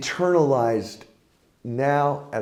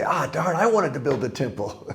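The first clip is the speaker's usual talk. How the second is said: mock grumble; 4 semitones higher than usual. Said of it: "He didn't say".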